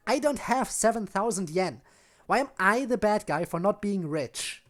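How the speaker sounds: loud defensive yelling; angry shout. Acted. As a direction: shout it back, hurt and angry. Natsuki shouts back.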